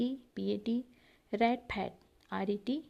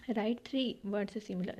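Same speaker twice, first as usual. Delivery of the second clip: slow reading; much slower than usual. Shown as a demonstration. Teacher reads an instruction aloud.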